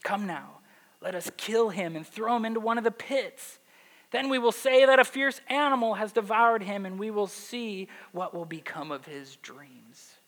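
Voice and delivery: mildly mocking, acted scheming; a little snarky. Brothers plot to kill the dreamer, lightly snarky. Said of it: "Gotta read it with a little snarky voice".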